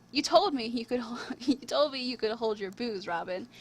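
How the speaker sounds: lightly voiced skeleton drinking buddy; a hint of a teasing companion; Thomas the Skeleton. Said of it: "said her drinking companion, Thomas".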